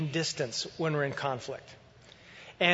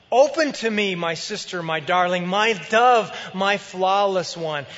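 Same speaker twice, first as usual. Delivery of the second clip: wooing husband; 5 dB louder than usual. Acted. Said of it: "she reports him saying".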